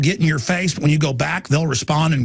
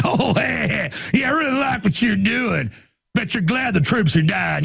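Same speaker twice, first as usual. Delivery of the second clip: mocking; 4 semitones higher than usual. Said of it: "and they're like".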